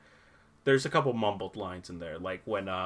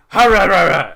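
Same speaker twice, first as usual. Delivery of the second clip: higher, much louder muffled growl, words smeared; mumbled Batman impression; 7 semitones higher, 18 dB louder than usual. Mocking Batman's unclear line to friends, loud muffled growl. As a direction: growl it so no word comes through. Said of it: "and he goes".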